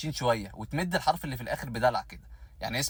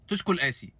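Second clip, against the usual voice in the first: mock Syrian greeting; 4 semitones higher than usual. Shown as a demonstration. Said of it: "أول ما تشوفه تقول له".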